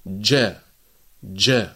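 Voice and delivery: ج held shut, no air released; correct jim. Shown as a demonstration. Teacher modelling proper jim for students. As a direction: close off the ج cleanly. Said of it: "فنقول".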